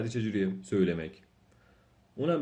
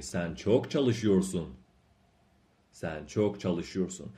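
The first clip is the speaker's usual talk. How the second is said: slow model reading; much slower than usual. Shown as a demonstration. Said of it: "teacher drills the sentence slowly".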